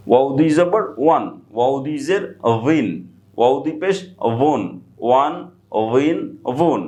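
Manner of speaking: "ওয়িন" and "ওয়ন" begun with a light v, short of a full bha; soft v-like wao. Shown as a demonstration. Teacher drilling learners on Arabic wao, soft v-like wao. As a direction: spell out "ওয়ান", "ওয়িন", "ওয়ন" with a loose v-like glide. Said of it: "বায়ের মতো কিছুটা উচ্চারিত হবে".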